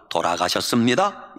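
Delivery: low, formal standard Korean. Shown as a demonstration. Preacher announces a death, in standard Korean. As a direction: say it in proper Seoul Korean. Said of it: "표준말".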